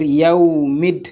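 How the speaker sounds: "Yaoumid" with the vowel drawn out into a closing d; linked reading. Shown as a demonstration. Teacher showing learners how two words link, linked reading. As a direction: join "Yaoumid" as one linked word. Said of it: "on va dire".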